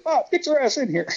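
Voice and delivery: high-pitched mock holler; imitating Evil's holler. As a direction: bark the invite over the guy at the door. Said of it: "Neil's like".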